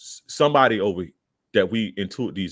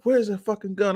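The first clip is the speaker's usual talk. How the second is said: high-pitched, forceful mock interrogation; acted police demand; 13 semitones higher than usual. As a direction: imitate an officer demanding answers. Police roughing him up, demanding.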